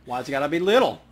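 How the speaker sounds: loud mock-offended shout through laughter; laughing protest. Real, not acted. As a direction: object to the short joke while laughing. Player objects to short joke.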